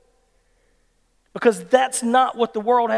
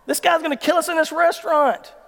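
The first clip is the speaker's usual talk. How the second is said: imitated panicked thought; 7 semitones higher than usual. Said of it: "he thinks, "We're fixing to die".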